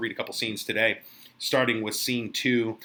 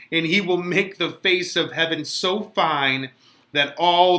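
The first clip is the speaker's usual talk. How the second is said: dramatic reading of Juliet, higher and louder, slow in places; young Juliet; 3 semitones higher, 4 dB louder than usual. Acted. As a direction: pour out a young bride's impatient longing. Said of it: "I try to capture young Juliet".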